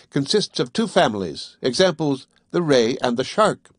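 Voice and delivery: scholarly Conseil. Acted. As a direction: recite it like a tidy young scholar. Conseil reciting the classification.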